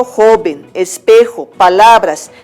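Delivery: joven, espejo, palabras, each leaning on the next-to-last syllable; stress on penultimate syllable. Shown as a demonstration. Teacher listing graves without tilde, joven, espejo, palabras stressed on the penultimate syllable. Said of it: "llevan el acento en la penúltima".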